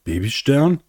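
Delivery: hoch und steigend, überrascht; frag, als könntest du es kaum glauben; ungläubige Frage. A narrator's reading. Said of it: "konnte es nicht glauben". (ungläubig staunend)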